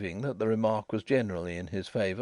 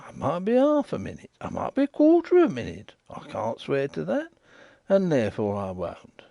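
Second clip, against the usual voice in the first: lightly voiced waterside informer, insistent; a rough riverside man pressing his point; Riderhood; 5 semitones higher than usual. Riderhood bargains about minutes.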